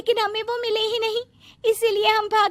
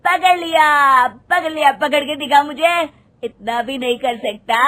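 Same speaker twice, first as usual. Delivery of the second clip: playful taunting; 3 semitones lower, 3 dB louder than usual. Acted. Kids teasing in chase game.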